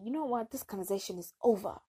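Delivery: quick, mock-angry cutoff; mad retort. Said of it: "I got mad".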